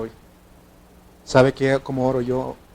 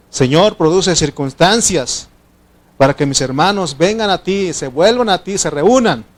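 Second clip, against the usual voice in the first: fervent loud prayer; 5 semitones higher, 6 dB louder than usual. Shown as a demonstration. Preacher shows the congregation his old group prayer, fervent and loud. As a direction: stretch out each word like an impassioned intercessor. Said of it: "Fíjense cómo oraba yo".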